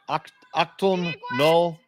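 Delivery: loud German call down the ice. Retold or imitated. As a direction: bark the German warning at the sweepers. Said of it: "I end up, I just went".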